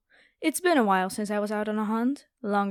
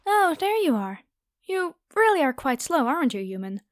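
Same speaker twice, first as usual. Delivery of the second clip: higher, louder sneering tease; gloating taunt; 5 semitones higher, 3 dB louder than usual. Acted. Vampire catching the human, gloating and higher.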